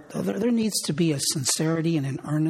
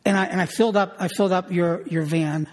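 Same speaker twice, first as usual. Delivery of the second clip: with enthusiasm; 3 semitones higher than usual. Retold or imitated. Husband eagerly telling wife he filled her van. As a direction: sound like you really want to do it. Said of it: "I said it with enthusiasm".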